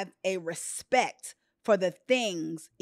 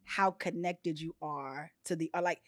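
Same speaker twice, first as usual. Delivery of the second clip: tender quote; 4 semitones lower, 4 dB quieter than usual. Retold or imitated. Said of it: "he was like".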